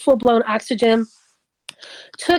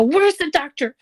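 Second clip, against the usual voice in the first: retold crying panic; 4 semitones higher than usual. Wife running down hospital hall for the doctor, mock panicked cry. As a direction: re-enact calling out frantically for help. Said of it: "I'm crying. I ran down the hall".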